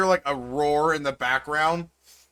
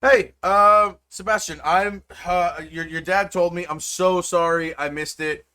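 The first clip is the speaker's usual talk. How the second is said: a lightly voiced rushed, apologetic mother; hurried mom calling her son to apologize; apologetic mom on the phone; 2 semitones higher, 5 dB louder than usual. Mom apologizing to her son by phone, flustered.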